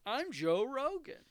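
hammed-up failed impression, loud; Joe Rogan impression. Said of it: "I can't do voices".

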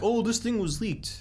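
high, slow mock gossip. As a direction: sing it like silly clickbait. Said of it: "everything that's like".

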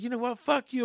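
high-pitched retold cursing; mock old lady. Old lady swearing at the shopper, high mock voice. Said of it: "Well, she's like".

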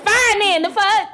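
high, huffy mock surrender; mad. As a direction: give up in acted exasperation. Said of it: "So you're mad that I'm calm?".

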